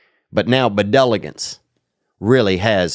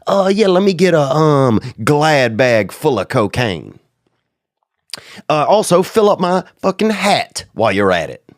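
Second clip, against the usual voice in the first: hammed-up rich guy placing an order, pitched way up; mock big-shot order; 6 semitones higher than usual. Ordering cocaine as rich himself.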